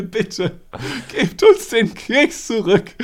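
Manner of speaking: high, slow, trembling plea; tragic heroine sorrow. Retold or imitated. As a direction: beg tragically, voice quivering. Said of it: "so richtig ernst mit zitternder Stimme".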